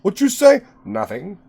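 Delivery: hammed-up 1920s tough guy; old-timey gangster voice; twenties voice. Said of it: "doing the twenties voice".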